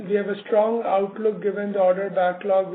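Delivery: ordinary talk, nothing marked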